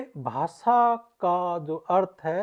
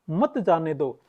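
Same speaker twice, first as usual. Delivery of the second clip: "मत जाने दो" as a separate phrase after the comma; pause before मत; slower than usual. Shown as a demonstration. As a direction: start afresh on "मत", keeping "मत जाने दो" together. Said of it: "रोकने के भाव से वो व्यक्ति बात कर रहा है". ("मत" से पहले विराम)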